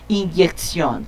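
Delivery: "Injeção" spoken carefully, stressed on the last syllable; careful pronunciation. Shown as a demonstration. Teacher modelling the hard word "Injeção" for students. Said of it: "difícil de falar".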